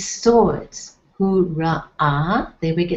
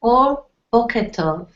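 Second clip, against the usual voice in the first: said for learners to repeat; 5 semitones higher than usual. Shown as a demonstration.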